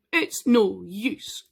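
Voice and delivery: slow, drawn-out hopeless moan; defeated dragon giving up; sad dragon. Acted. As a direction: let it sag out slowly.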